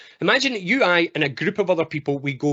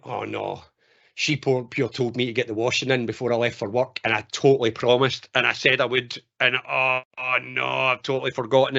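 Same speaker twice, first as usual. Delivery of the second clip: guilty dread; 3 semitones lower than usual. Acted. Man realising he forgot the washing, guilty mock dread. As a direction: groan to yourself at your own mistake.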